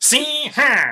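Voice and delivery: put-on very high, very slow, nasal old New York twang. Explaining how the old New York accent sounded: nasal old New York accent. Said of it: "Old New York accent was very like nasal".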